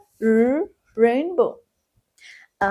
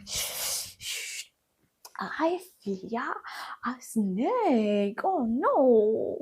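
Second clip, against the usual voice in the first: mock fear; 5 dB quieter, slower than usual. Hushed pretend fear of snake.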